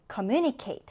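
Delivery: carefully pronounced English word; model reading. Shown as a demonstration. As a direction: say communicate slowly and clearly for students. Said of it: "같이 읽어볼게요".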